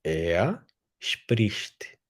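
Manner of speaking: "Er" said like "ea", the r melting into an A sound; German r as A. Shown as a demonstration. Teacher shows class "Er" with r sounding like A. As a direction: let the R of "Er" open into an A. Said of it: "O R lá tá com som de A".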